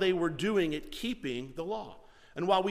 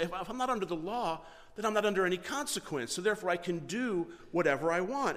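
reasoning believer; 2 semitones higher than usual. Retold or imitated. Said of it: "they would say".

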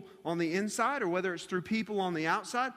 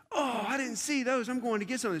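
mock eager, higher-pitched kid; 5 semitones higher than usual. JoJo spotting the pepperoncinis, eager. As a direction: imitate a boy spotting a treat. Acting out eager boy at pizza.

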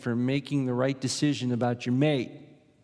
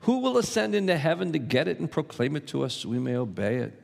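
a touch of sarcasm, quicker and higher; mildly sarcastic reading of the question; 4 semitones higher, faster than usual. Retold or imitated. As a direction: read it as a mocking question, quickly. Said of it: "This is definitely sarcasm here".

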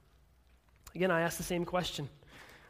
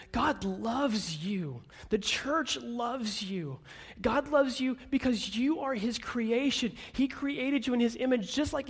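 reassuring; 4 semitones higher, slower than usual. Real, not acted. Slow reassurance to the hurt.

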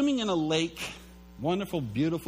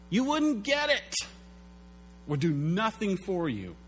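a hint of a higher, firm God addressing Job; lightly voiced God; 4 semitones higher than usual. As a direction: speak as God, mildly raised. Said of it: "what he said to Job was".

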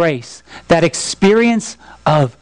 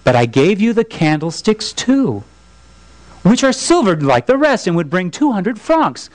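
measured storytelling read aloud; a preacher reading a novel passage; story narration. A narrator's reading. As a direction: read the tale to the congregation.

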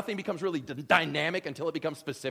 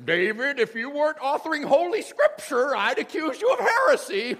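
mock accusation; 9 semitones higher, 7 dB louder than usual. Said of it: "It's like".

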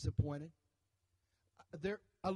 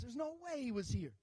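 grieving Thomas; 7 semitones higher than usual. Retold or imitated. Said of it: "And Thomas says".

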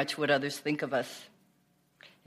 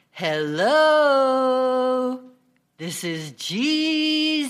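slow, much higher and louder booming call; much louder sacred voice; 7 semitones higher, 6 dB louder, much slower than usual. Retold or imitated. Painter shouting down to the woman, much louder. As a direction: bellow it down from the ceiling. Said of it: "he said, much louder this time".

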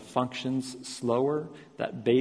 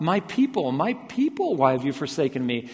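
raised preacher's rendering of a cry; imagined cry. Retold or imitated. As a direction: cry out as if to those who left. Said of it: "He could have cried out".

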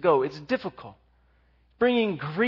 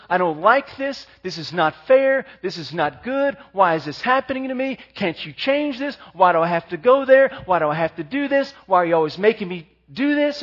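put-on whiny kid; 6 dB louder than usual. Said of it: "The kid's natural response is".

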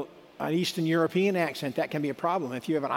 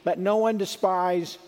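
preaching Paul; 3 semitones higher than usual. Acted. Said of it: "Paul says".

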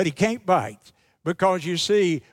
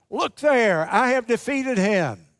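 mildly gloating, higher-pitched boast; exulting; 4 semitones higher than usual. Retold or imitated. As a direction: voice Death crowing over a beaten foe, lightly acted.

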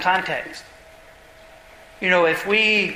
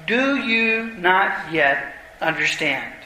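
drawn-out, grave question; slow solemn rebuke; 2 semitones lower, much slower than usual. Acted. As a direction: let each word land slowly. Jesus rebukes the disciples.

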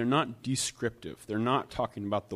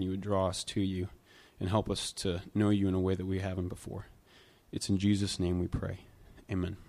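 prayer; 3 semitones lower than usual. Real, not acted. Pastor prays before the reading.

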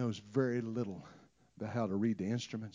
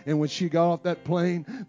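usual speaking voice

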